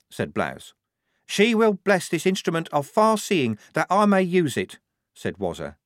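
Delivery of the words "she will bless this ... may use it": higher, certain and rapt; devout private. Acted. Devout private telling the lieutenant, rapt and higher. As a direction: speak with the glow of faith.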